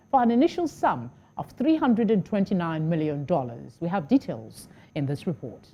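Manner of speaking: measured television news anchor delivery; news read. Acted. Anchor tells viewers of a military aircraft contract, formal news read. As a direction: read the bulletin evenly and formally.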